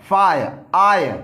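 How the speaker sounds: "फाय, आय" split and drawn out slowly; slow sound-out. Shown as a demonstration. Teacher breaking fire into sounds for the class, slowly. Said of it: "आ हो गया य".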